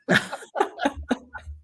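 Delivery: a breathless, unvoiced laugh; airy laugh. Real, not acted. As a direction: laugh it off after the failed accent. Laughs after failed accent.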